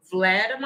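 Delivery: Vladimir as a questioning VLAD-uh-MY-er; rising "Vladimir", its ending said like "myer"; attempted pronunciation. Shown as a demonstration. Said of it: "if I said it right this time".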